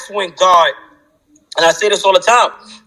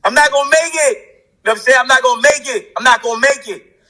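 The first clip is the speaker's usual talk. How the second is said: higher-pitched, overwhelmed protest; retold desperate plea; 5 semitones higher than usual. Man retelling his cry to God in solitary, desperate plea. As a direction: plead it as a remembered breakdown.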